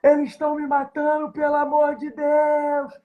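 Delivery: high, slow, panicked mock scream; desperate scream for help. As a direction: cry for help as if being killed. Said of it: "um grito desesperador".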